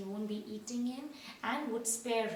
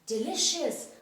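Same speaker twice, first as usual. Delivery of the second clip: higher, louder, relish it; a lightly voiced owl, delighted; delighted cry; 5 semitones higher, 4 dB louder than usual. A narrator's reading. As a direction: savour the word with joy. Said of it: "Raoul cried".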